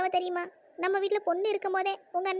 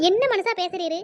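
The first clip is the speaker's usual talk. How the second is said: angry scolding; 6 dB louder than usual. Acted. Wife scolds husband over match.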